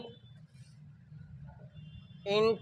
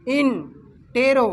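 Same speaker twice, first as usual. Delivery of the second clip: इंटेरोगेटिव read slowly, syllable by syllable, a bit louder; broken into parts; 2 semitones higher, 4 dB louder, slower than usual. Shown as a demonstration. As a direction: split इंटेरोगेटिव into in-te-ro-ga-tiv, deliberately. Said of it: "इसको तोड़ के पढ़ेंगे".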